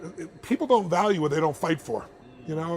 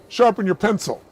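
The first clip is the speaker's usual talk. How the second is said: lightly voiced tough haggler, higher and louder; haggling girlfriend; 4 semitones higher, 6 dB louder than usual. Girlfriend demands a deal from camera seller, pushy and loud. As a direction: push for a deal, a bit louder. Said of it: "she goes".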